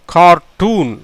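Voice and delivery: கார்ட்டூன் said as car-toon with a long oo; model pronunciation. Shown as a demonstration. Teacher shows how கார்ட்டூன் sounds, clear model word. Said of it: "எப்படி வருது பாருங்க".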